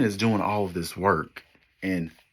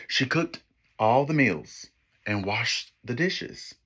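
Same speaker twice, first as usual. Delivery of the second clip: put-on lively storybook read for kids; story narration. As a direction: read it like a picture book to children. Reads picture book to class.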